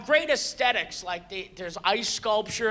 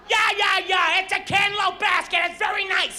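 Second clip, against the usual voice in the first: higher, louder sarcastic yeah yeah; impatient brush-off; 8 semitones higher, 4 dB louder than usual. Retold or imitated. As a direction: dismiss the cantaloupe basket impatiently. Impatient man at line's end.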